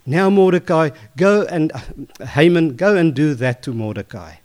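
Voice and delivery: the king barks his command with relish. Retold or imitated. Glad king ordering Haman to honor Mordecai, loud and commanding.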